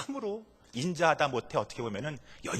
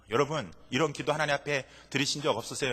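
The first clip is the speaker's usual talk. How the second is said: ordinary talk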